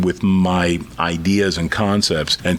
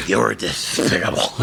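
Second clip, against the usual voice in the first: cartoon character. Cartoon duck catchphrase imitated.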